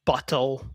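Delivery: "bottle" with a clearly sounded middle T; accent variant of bottle. Shown as a demonstration. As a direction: say "bottle" with a true T, not a flap. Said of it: "there are different accents".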